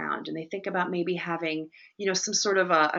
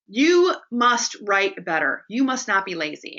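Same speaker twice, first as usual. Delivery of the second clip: mild Robin Williams quote; 4 dB louder than usual. Retold or imitated. Teacher quoting the film teacher, louder commanding. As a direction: preach it like the teacher on the desk. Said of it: "he's saying".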